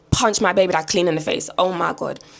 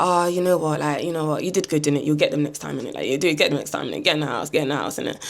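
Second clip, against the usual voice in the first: consoling; 4 semitones lower, 4 dB quieter than usual. Retold or imitated. Consoling her partner after the fight.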